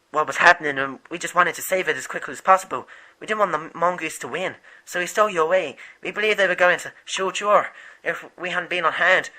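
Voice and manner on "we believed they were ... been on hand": breathless, gasping between words; puffed out after rushing; out of breath. Acted. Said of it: "I'm getting a bit out of breath now".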